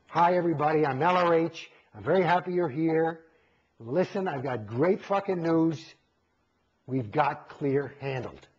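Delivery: lightly voiced lecture-tape pitchman, slowing at the end; a hint of a salesman announcing big news; mild mock lecturer's announcement; imitating L. Ron Hubbard. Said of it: "it goes like this".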